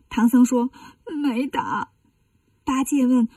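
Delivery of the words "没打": soft, sniffly denial; tearful. Acted. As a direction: answer meekly through put-on tears. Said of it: "你咋哭了". (带着哭腔小声回答)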